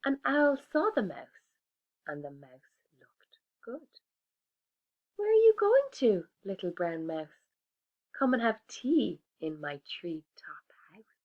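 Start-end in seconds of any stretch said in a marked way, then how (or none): 5.2-11.1 lightly voiced owl; hooting owl. Owl character voice.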